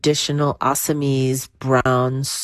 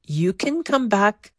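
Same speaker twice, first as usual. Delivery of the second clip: Parvati; 4 semitones higher than usual. Retold or imitated. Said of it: "She said".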